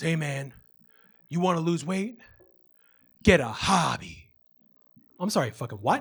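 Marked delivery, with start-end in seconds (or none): 0.0-4.3 put-on drunk voice, lower. Retelling what a drunk guy said to him one night, imitating a drunk guy. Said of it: "real drunk".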